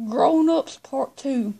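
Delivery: slow, deliberate, word by word; carefully slowed for voice assistant; slow and clear for Siri. Real, not acted. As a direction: spell it out slowly so the phone understands. Kid repeating title to Siri.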